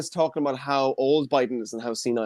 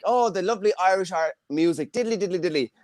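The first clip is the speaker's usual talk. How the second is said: slightly higher, softer lilting tourist; delighted tourist; 4 semitones higher, 4 dB quieter than usual. Retold or imitated. Visitor coming to Ireland expecting folk music, mock delight. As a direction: gush lightly like a charmed tourist. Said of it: "coming to Ireland and you're thinking".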